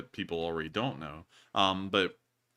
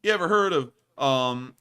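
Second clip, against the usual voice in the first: excited; 8 semitones higher, 7 dB louder, slower than usual. Real, not acted. Playful restaurant one-upping.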